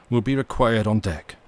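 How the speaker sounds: a touch sharper captain; sharper note. Acted. Captain ordering the mate on deck, slightly sharper. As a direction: clip it as an order. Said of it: "he added in a sharper note".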